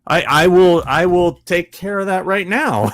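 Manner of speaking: high-pitched, stammering amazement; floored. Retold or imitated. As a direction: agree at once, completely stunned. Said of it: "I was floored".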